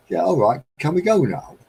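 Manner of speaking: put-on high, loud bored kid whine; whiny child. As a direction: beg to leave like a bored kid. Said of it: "repeating son's line".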